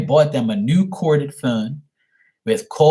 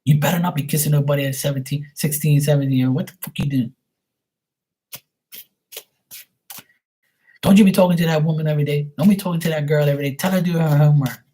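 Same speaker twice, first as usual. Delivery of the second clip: much higher, fast scolding mother voice; angry mom; 3 semitones higher, faster than usual. Retold or imitated. Son imitating his mom yelling about a girlfriend, shrill and fast. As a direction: rattle it off like a furious mom. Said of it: "My mom be like".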